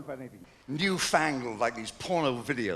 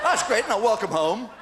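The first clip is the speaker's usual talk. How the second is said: laughing reply; 4 semitones higher, 8 dB louder, slower than usual. Retold or imitated. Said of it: "And I said".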